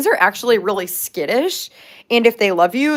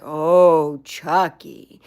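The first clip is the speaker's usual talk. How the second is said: knowing scold; 4 semitones lower, much slower than usual. Retold or imitated. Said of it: "all I have to do is be like".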